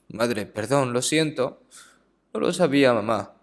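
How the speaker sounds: soft, subdued apology to a mother; retold tearful apology. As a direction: apologize quietly, as a remorseful son would. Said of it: "empezó a llorar". (disculpa llorosa, en voz baja)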